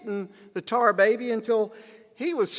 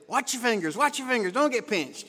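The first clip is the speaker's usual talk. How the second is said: higher-pitched retold motherly caution; mother's warning; 4 semitones higher than usual. Mother cautioning her son at the washing machine, higher warning. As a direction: warn a child urgently in a higher voice.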